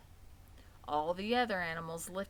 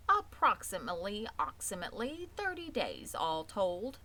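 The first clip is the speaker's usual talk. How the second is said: stuttering goose. Acted. Old goose explaining hatching to Wilbur, stammering. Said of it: "goose repeats herself".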